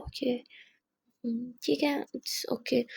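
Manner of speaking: slow, soft unvoiced whisper; hurt whisper. Muskan hiding her hurt from Aadhya, slow whisper. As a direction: swallow the hurt and barely breathe it.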